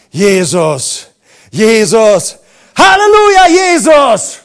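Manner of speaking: groaning Jesus, building to a full shout; a desperate whispered groan that grows into a triumphant yell; moaning to shouting. Retold or imitated. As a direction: start as a faint moan and swell into a roaring cry. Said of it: "hab ich wie gestöhnt".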